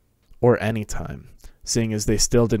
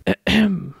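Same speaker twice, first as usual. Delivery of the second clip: throat clearing; 10 semitones higher than usual. A narrator's reading. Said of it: "James coughed".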